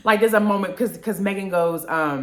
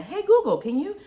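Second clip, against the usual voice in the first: talking to Google; 6 semitones higher, faster than usual. Retold or imitated. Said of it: "I was doing the".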